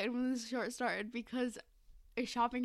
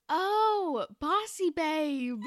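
quoting Kenzie; 4 semitones higher, 6 dB louder, much slower than usual. Retold or imitated. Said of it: "Kenzie just goes".

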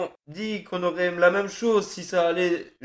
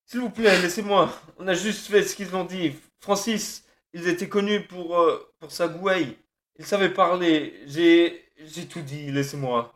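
fading plea. Acted. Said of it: "La voix d'Adam se perdait ... des murmures".

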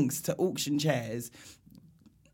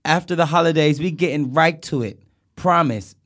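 an impression of an R&B singer; 2 semitones higher than usual. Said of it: "trying to talk like a singer".

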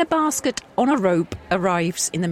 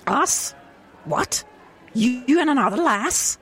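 higher, suspicious Scottish voice; suspicious Scottish wife; 7 semitones higher than usual. Acted. A Scottish wife grows suspicious of her husband, higher-pitched. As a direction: catch him out with another lass. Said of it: "can I do a Scottish?".

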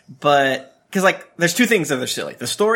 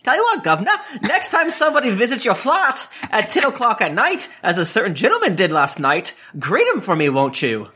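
higher, sly Cockney threat; reading a Cockney villain's threat, higher; Cockney accent; 6 semitones higher than usual. Acted. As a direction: menace him in a Cockney accent. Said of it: "Anyway, he says".

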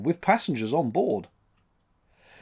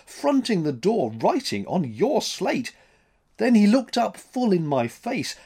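a lightly voiced frightened mate, pleading; alarmed first mate; 5 semitones higher, 3 dB louder than usual. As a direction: insist shakily to the captain that you saw him. Mate insists he saw a stranger.

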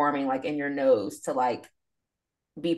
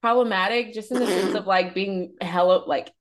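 mock sing-song warning. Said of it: "I was like".

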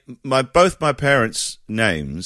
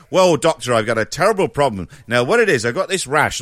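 chatty patient; 3 semitones higher, 4 dB louder, faster than usual. Retold or imitated. Patient describing symptoms.

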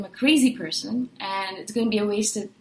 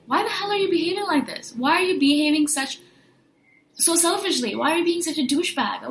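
exasperated demanding questions; 2 semitones higher than usual. Pretend. Imagined confronting selfish people.

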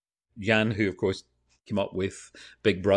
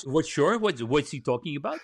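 puzzled Dutch crew member, pitched up; Dutch accent; 4 semitones higher than usual. Retold or imitated. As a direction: imitate a confused Dutch accent, higher than usual. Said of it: "you know, that Dutch".

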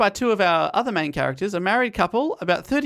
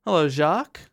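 knowing wink. Retold or imitated. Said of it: "Bit of a wink, wink".

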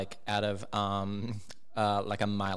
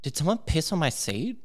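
mock drunk outrage; 8 semitones higher, 5 dB louder than usual. Drunk crying girl in bathroom.

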